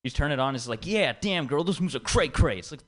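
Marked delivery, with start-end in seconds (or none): 0.9-2.6 higher, hammed-up imitation of a Bollywood song's slangy English line; mock Bollywood English. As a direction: mimic the cheesy English hook of a Bollywood song, higher. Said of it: "what Indians think a black person sounds like".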